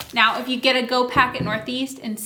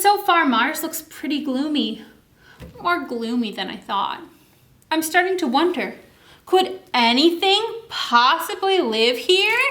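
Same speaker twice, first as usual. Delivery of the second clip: gloomy astronaut, rising into doubt; a hint of a gloomy astronaut; 3 semitones higher than usual. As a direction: let the doubt creep in as he wonders.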